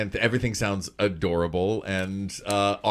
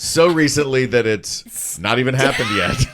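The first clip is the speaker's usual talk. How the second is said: laughing tease; 3 semitones higher, 6 dB louder than usual. Real, not acted. Teasing friend about squirrel.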